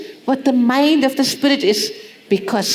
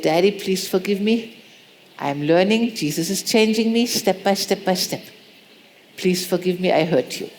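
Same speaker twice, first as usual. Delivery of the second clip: soft, low plea to Daddy; a quiet heartfelt sorry to a father; tender apology to father; 4 semitones lower, 3 dB quieter than usual. Retold or imitated. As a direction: read the letter gently, humbly. Letter to father, voiced.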